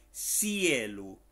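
Finnish "cielo", drawn out slowly; pronunciation demo. Shown as a demonstration. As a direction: model "cielo" slowly for learners. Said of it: "Muy fácil como se pronuncia". (pronunciación modelo de "cielo", lenta y alargada)

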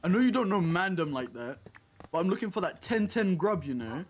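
London street slang voice; london roadman accent. Pretend. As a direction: slip into roadman talk, cocky. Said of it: "stories of me being a roadman".

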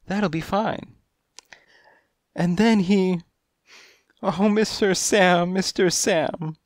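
high kittenish voice rising to anguish; a coy client coming apart, pleading; distressed cat lady. A narrator's reading. Cat client voice, building upset.

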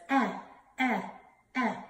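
"Eh" as a short, separate vowel; letter sound demo. Shown as a demonstration. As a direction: sound out "Eh" three times with pauses. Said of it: "Ellie Elephant says".

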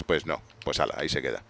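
ordinary talk

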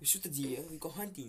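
hammed-up Australian accent. Player invents hunting talk for the dare, mock Australian accent. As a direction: keep up the badly faked Australian. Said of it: "That is an Australian accent".

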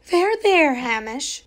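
consoling. A narrator's reading. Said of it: "said Missus Grinling consolingly".

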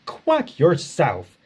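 slow, indignant retort. Acted. Duck snaps back at Donald, indignant and slow. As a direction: fire it back, offended. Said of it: "said Duck indignantly".

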